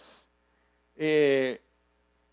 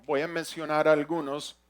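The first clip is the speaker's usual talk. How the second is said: ordinary talk, nothing marked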